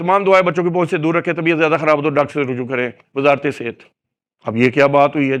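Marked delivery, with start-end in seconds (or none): 0.0-3.8 rattled-off, very fast rush, words run together. Showing how some people rattle off a health warning, very fast, rushed. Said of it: "बास बंदे बहुत तेजी से बोलते हैं".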